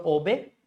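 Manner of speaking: OBEY as O-bey, stress on the O; obey said wrongly with a full, stressed O; stress on first syllable. Shown as a demonstration. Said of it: "Because they are stressing on here".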